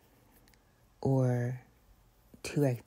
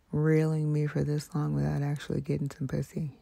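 whisper. Real, not acted. ASMR whisper rant.

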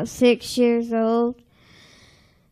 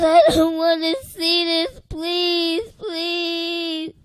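tearful plea; 3 semitones higher, slower than usual. Retold or imitated. Pleading with Jesus.

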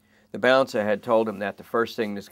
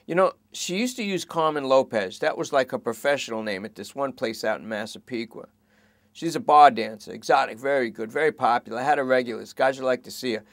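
fast, raised rambling worry; worried junkie; 3 semitones higher, 5 dB louder than usual. Acted. Suspect fretting to detectives about his girlfriend, fast anxious. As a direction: babble it out anxiously.

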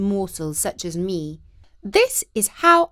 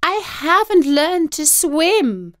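cat's voice; 8 semitones higher, 5 dB louder, slower than usual. A narrator's reading. Cat voiced in story.

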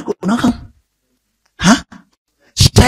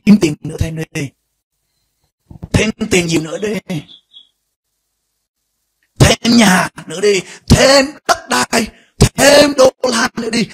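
tempt, then demand more and more; voice of the world; much slower than usual. Acted.

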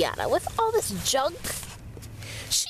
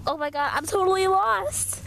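panicked; 4 semitones higher than usual. Acted. Realizing she is lost.

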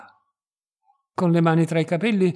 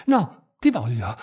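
low, pressing, with stress on ti; urgent ti voglio, heavy stress on ti; as if drunk with desire; 4 semitones lower, 4 dB louder than usual. A narrator's reading. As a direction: insist hungrily, stressing ti. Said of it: "diss'egli ancora com'ebbro".

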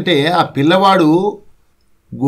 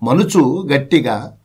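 poem recitation; slower than usual. Acted.

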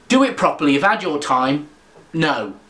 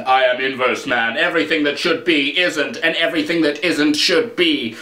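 mock superhero; 4 semitones lower than usual. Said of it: "are you inverse man?".

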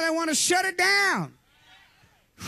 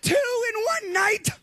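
slow, high incredulous outburst; exasperated cry; 6 semitones higher, slower than usual. Retold or imitated. Preacher groaning at a second possessed girl, incredulous. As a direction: disbelief thrown up high.

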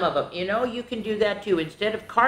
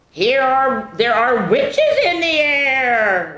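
louder, slower eerie telling; spooky reading; 7 semitones higher, 6 dB louder, much slower than usual. Acted. Reading to kids about witches, slow and spooky. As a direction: draw out the witches with suspense.

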